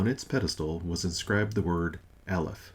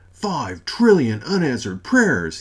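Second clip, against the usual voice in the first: slow, loud anguished bellow; 6 semitones higher, 9 dB louder, slower than usual. Acted. God hearing his prayer count, anguished bellow. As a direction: wail it out in disbelief. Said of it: "he bellowed".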